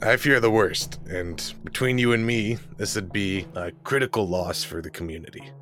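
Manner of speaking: lightly voiced ghoul farmer; a hint of a weary ghoul. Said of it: "let me get my ghoul voice on".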